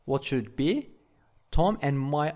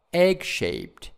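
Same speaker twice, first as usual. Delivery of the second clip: "Egg-shaped" with EGG higher and stressed; stress on first syllable; 4 semitones higher, 3 dB louder than usual. Shown as a demonstration. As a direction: hit EGG, then drop on "shaped". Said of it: "stress is on the first syllables".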